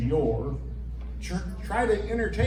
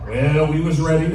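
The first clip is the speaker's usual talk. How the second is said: loud; 7 dB louder than usual. Acted. Cowboys ready as trucks open.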